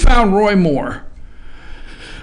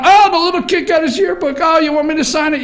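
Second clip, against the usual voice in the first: mock fawning adult; 8 semitones higher, faster than usual. Voicing townspeople fawning over a kid.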